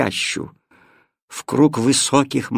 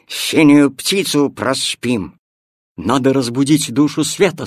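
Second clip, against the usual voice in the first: put-on louder, urgent boy's call; 5 dB louder than usual. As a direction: rouse everyone in a hurry. Boy urgently waking everyone.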